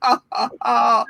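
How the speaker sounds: measured mid-sized put-on laugh; medium laugh. Shown as a demonstration. Leader steps up the warm-up, medium laugh. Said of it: "a medium laugh with a".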